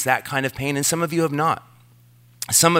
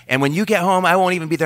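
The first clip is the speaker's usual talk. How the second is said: mock upset girlfriend; 6 semitones higher, much faster than usual. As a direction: mimic her hanging-up line, lightly acted. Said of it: "I was like".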